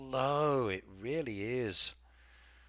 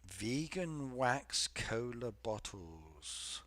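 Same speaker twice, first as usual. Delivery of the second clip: disbelieving; 4 dB quieter, much slower than usual. Real, not acted. Repeats chat phrase in disbelief.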